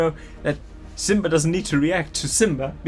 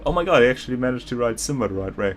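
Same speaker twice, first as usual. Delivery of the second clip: mock American accent, pitched higher; exaggerated American accent; 4 semitones higher than usual. Reading the author's note aloud, in a mock American accent. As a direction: read it like a gushing American teen writer, a hint of American. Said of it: "in the most American accent I can gather".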